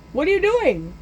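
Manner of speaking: high-pitched panicky question; panicked protest. Retold or imitated. Boy watching Grinch spread lighter fluid, high panicked protest. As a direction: cry it out high, in mock alarm.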